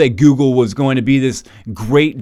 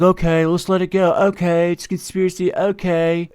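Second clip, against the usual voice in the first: mock sheeple; 6 semitones higher than usual. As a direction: brush it off like a docile follower. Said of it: "conditioned to be like".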